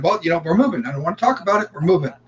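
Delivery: imitating an exasperated dad; retold firm refusal. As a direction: act out cutting the argument short. Retold father shutting down the argument.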